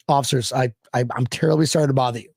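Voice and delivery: fast, overly polite apology. Retold or imitated. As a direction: apologize too politely, in a rush. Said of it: "I'm like".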